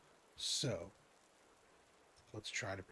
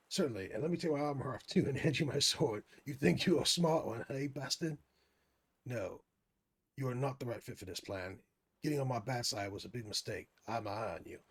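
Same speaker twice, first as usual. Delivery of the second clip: mock menace; 3 semitones higher, 6 dB louder than usual. Guard voiced turning on player.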